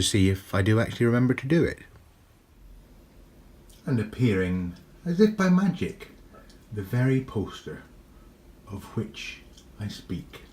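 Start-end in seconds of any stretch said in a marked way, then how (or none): 3.9-10.4 mock magical reveal.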